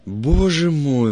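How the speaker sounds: loud, high, drawn-out outcry; stretched, high cry of astonishment; shocked exclamation. A narrator's reading. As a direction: exclaim it slowly in loud dismay. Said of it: "воскликнул куратор проекта".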